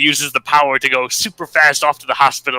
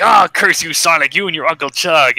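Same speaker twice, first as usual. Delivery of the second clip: raised, louder "oh", easing off after; mock villain cursing; 5 semitones higher, 4 dB louder than usual. Beaten Robotnik to Sonic, mock cursing. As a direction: curse him like a lightly hammed-up cartoon villain. Defeated villain curses the hero.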